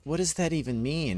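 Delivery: baffled question. Retold or imitated. Designer questioning the phrase.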